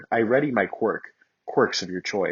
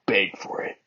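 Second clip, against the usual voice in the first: smirking. Acted. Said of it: "he said, smirking".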